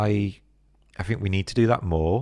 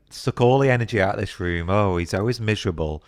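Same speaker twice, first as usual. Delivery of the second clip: mock exasperation; 4 dB louder than usual. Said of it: "I'd be like".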